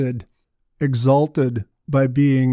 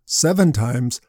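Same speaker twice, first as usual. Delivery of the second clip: lower, doubting seven times; incredulous echo; 3 semitones lower than usual. Retold or imitated. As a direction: throw the number back in disbelief. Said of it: "Jesus' response likely surprised Peter".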